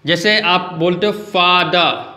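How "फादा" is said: "फादर" said slowly as fa-da; silent final R. Shown as a demonstration. Teacher gives another example, "फादर" as fa-da. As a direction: end "फादर" on a vowel, no R. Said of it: "फादर होता है".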